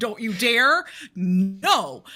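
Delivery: loud, forceful, very slow commanding tone. In a game, scolding someone to distract her, in a forceful librarian voice. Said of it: "like my librarian voice".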